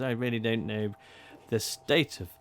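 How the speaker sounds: put-on a British old-timer complaining, muttering on; grumbling British voice. Gramophone voice complaining to players, British grumble. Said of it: "this grumbling British voice goes".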